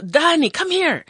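high call across a room. Retold or imitated. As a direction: call the child over. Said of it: "I yell to her".

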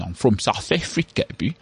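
mock South African accent; British take on South African. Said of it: "how the Brits rip us".

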